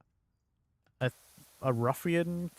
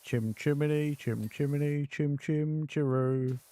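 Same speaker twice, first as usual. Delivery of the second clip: Dick Van Dyke Cockney. Retold or imitated. Recalling Mary Poppins, mock Dick Van Dyke Cockney. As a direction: do Dick Van Dyke's famous bad Cockney. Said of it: "I tend to think Dick Van Dyke".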